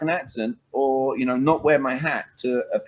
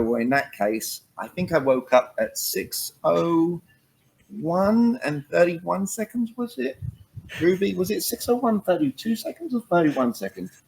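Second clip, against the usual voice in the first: mock pedantic answer; 6 semitones higher than usual. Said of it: "And then I go".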